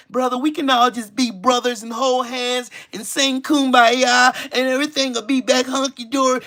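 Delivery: syrupy mock of the Kumbaya brother; mock passive peacemaker. Mocking the passive people who smile in his face, syrupy. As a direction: sweet-talk it like a smiling fake. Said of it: "Passive, smile in your face".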